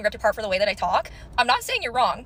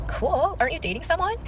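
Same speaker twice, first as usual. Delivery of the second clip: sarcastic; 7 semitones higher than usual. Retold or imitated. Sarcastic retort to ex.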